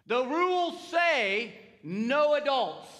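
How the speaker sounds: slow, firm and loud, each word weighed; not quiet voice. Retold or imitated. Grandfather firmly telling granddaughter the rule, slow and loud. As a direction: lay down the rule loudly and deliberately. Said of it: "not in my quiet voice".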